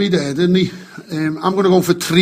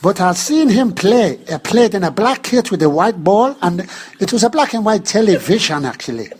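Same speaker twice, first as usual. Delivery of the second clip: Nelson impression.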